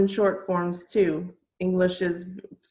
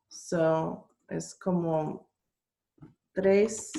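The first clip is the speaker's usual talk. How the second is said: whispering; slower than usual. Real, not acted. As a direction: whisper it aside. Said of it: "aside to students".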